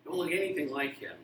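put-on high whiny protest of a child; indignant kid. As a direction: squeal it like an offended kid. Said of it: "And you're like".

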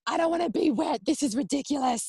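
high, whiny complaint about being wet; mock whine. Mother in labour refusing the shower, mock whiny. Imitating herself whining in labour.

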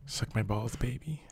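very soft pretend pillow talk; hushed, playful fake seduction; mock bedroom talk. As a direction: murmur it as a joke come-on.

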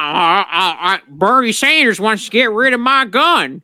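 lightly put-on voice of an armed Inteleon; hint of a comic gun-owner character; Inteleon impression. Inteleons complaining about Bernie Sanders, mock character voice. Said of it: "the Antalians are like".

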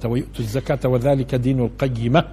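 measured, chanted verse reading; solemn scripture recitation; Quran recitation. Acted.

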